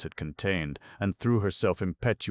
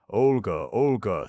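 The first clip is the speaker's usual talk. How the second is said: alarmed; 5 semitones higher, 6 dB louder than usual. A narrator's reading. Alarmed plea to Olga.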